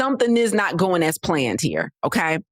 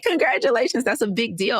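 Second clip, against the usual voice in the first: excited congratulations; 7 semitones higher than usual. Retold or imitated. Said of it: "And so I got excited".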